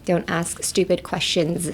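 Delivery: slow, clear teaching read; slow model sentence. Shown as a demonstration. Teacher reads the phrase slowly to the class. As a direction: say each word slowly for learners. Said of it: "そんぐらいやっちゃって大丈夫です。".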